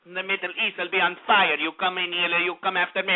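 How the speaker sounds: a lightly voiced mock dictator; mocking Assad. Radio host mocking the Syrian dictator's threats in a sneering voice. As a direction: mimic his threats with a sneer. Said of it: "what Bashar al-Assad says".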